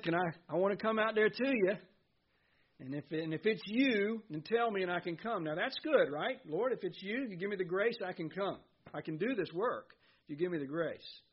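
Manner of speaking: a lightly voiced Peter, keen to go; eager plea. Peter begging Jesus to let him come, eager.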